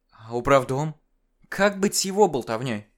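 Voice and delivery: заметно выше, с тревогой в голосе; спроси, боясь ответа; испуганно. Acted. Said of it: "В голосе Арины я уловил страх". (испуганный вопрос Арины)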